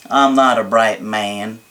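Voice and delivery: a hint of Forrest Gump, said slowly; Forrest Gump impression. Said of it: "That was terrible for".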